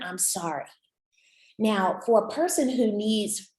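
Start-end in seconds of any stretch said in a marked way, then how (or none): 0.0-0.7 soft, sincere sorry; gently contrite, a little softer; genuine apology. Acted. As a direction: say sorry quietly and mean it. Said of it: "hear is a genuine".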